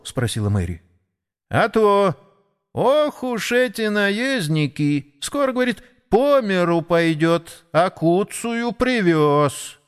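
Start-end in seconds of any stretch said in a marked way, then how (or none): 1.5-9.8 sparrow voice. Acted. Sparrow gossips about horses.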